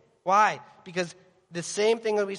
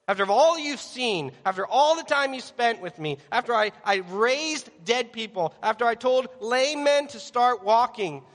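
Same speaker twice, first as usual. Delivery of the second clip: higher, emphatic listing that builds insistently; exasperated reproach; 4 semitones higher than usual. Acted. Jesus reproaches his faithless disciples, exasperated. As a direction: pile up the evidence in disbelief.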